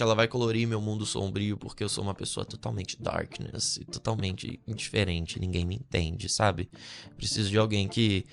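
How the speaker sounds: low, soft mock self-pity; coitadinho incompreendido. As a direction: imitate a misunderstood, gloomy romantic, voice dropped. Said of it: "tadinho dele". (coitadinho sofrido, voz baixa, imitando)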